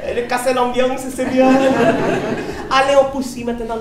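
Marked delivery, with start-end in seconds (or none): none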